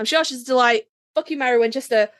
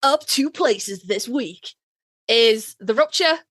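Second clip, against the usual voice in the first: slow, drawn-out chart host read; mock radio countdown announcer; slower than usual. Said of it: "I have to pull that voice from somewhere".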